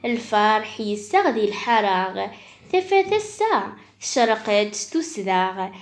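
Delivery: measured, lilting poetry reading; reading a poem aloud; poem recitation. Acted. Recites birthday poem for sister.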